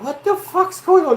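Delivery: loud, high-pitched outraged question; retold alarmed yell. Homeowner hearing banging by the staircase, retold high yell. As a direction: re-enact yelling at sudden racket.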